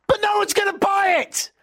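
exasperated shout. Real, not acted. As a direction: throw the line up in frustration. Arguing against overpricing.

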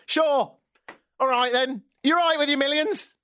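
high-pitched, resentful mock agreement; sarcastic indignation. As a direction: agree with comic outrage. Sarcastic retort to rich hosts.

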